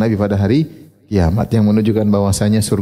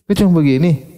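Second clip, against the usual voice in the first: mock complaint, pitched up; higher-voiced reproach of a dissatisfied wife; complaining wife; 5 semitones higher than usual. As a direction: imitate a wife's grumbling question.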